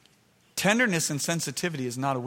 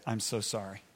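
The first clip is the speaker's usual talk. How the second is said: low, softening retold apology; contrite apology; 4 semitones lower, 4 dB quieter than usual. Father apologising to his son, quietly contrite. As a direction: re-enact asking forgiveness, dropping soft. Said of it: "So I go back to my son".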